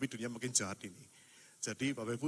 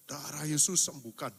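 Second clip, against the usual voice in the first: slow healing command; 3 dB louder than usual. Retold or imitated.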